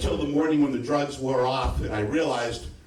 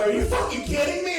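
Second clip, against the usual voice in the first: very high-pitched mock disbelief; incredulous. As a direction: squeal it in exaggerated disbelief. Retells his disbelief on phone.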